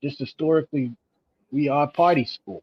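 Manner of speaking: light New York accent imitation; quoting in a faint New York accent. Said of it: "that was my, uh, New York accent".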